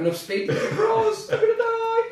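laughing cry rising to a high wail; mock panic. Real, not acted. Racing a friend in Mario Kart, a high laughing wail. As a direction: wail at crashing off the track.

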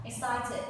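"Excited" in three clear syllables. Shown as a demonstration. Teacher drilling a word for the class, "Excited" in three clear syllables. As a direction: model "Excited" syllable by syllable, ek-sai-tid. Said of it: "You have three syllable".

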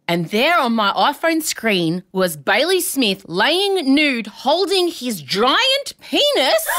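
slow, drawn-out scandalised telling; mock-horrified, stretching each word; melodramatic reveal. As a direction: build to the shocking reveal, word by word. Dramatic reveal of shocking photo.

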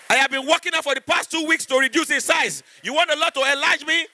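high, outraged woman's voice; hint of an offended lady; indignant woman. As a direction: play the lady insulted by the blessing.

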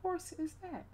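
high, startled question; mock-shocked high voice; retold surprised exclaim. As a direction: squeak out your own shock. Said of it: "I said".

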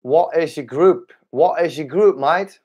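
tentative go at an Australian accent; lightly put-on Australian accent. Shown as a demonstration. Streamer playfully asking a viewer his group, light Australian accent. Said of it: "shall I do an, uh, Australian accent?".

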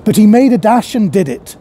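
measured, lively reading of a classic tale; story narration. A narrator's reading. Narrator reading A Christmas Carol to viewers, storytelling voice. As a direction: read the Christmas story aloud to an audience.

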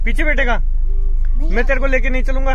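put-on playful uncle threatening a child, loudly; mock threat. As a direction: pretend to leave the kid behind.

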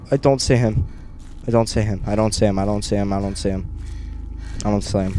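fading to a murmur. Real, not acted. Repeated scared muttering, fading.

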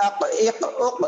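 আক, ইক, উক with a short echoing release after each k; qalqala echo. Shown as a demonstration. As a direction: bounce the final k of আক, ইক, উক. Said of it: "জজম হলে আর কি প্রতিধ্বনি হবে".

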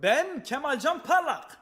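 man doing a woman's voice. Acted. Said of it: "Lan bu kız değil miydi ya?".

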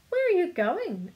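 high, loud call of inquiry; loud questioning. A narrator's reading. Philosopher under a tree to little man, loudly asking. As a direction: hail a passer-by with a question. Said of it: "asked a philosopher fellow".

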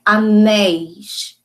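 "anéis" with a long, strong second syllable; stress on final syllable. Shown as a demonstration. Teacher reminding pupils of the written accent, "anéis" stressed on "néis". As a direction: lean slowly on the "néis" of "anéis". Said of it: "na sílaba mais forte, na sílaba tônica".

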